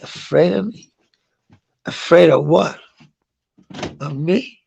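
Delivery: incredulous questions with rising ends; retold disbelief. Husband told by cop his wife is afraid, incredulous. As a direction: question it as if it makes no sense.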